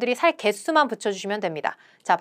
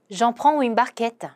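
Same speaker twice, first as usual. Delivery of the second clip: very slow, careful French; slow pronunciation model; slow demo; much slower than usual. Shown as a demonstration. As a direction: lay out each syllable slowly for learners. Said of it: "요것도 가겠습니다".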